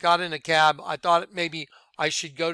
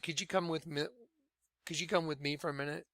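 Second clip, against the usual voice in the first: discreet request; 11 dB quieter, faster than usual. Retold or imitated. Officer asking him to come along, quiet and discreet. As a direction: ask quietly, without any fuss.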